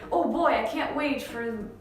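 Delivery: mildly excited anticipation. Shown as a demonstration. Teacher demonstrating oh boy for excitement, mildly excited. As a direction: show a touch of eager excitement. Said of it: "when you're excited about something".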